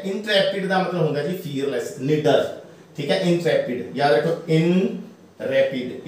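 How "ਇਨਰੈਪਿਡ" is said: ਇਨਰੈਪਿਡ slowly in parts, "in... repid"; teacher splitting ਇਨਰੈਪਿਡ for learners; pronunciation broken down. Shown as a demonstration. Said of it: "ਇਸ ਨੂੰ ਰੈਪਿਡ ਹੀ ਬੋਲਾਂਗੇ".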